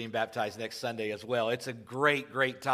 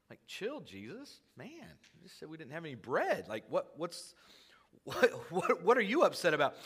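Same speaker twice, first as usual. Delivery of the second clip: lightly acted pushback, pitched up; bemused protest; 5 semitones higher than usual. Disciples to upset Jesus, bemused protest. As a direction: plead for him to calm down.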